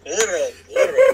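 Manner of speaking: "Burro" with the r trilled hard, slow; heavy rolled r. Shown as a demonstration. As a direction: roll the r in "Burro" long. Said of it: "You gotta roll the R's".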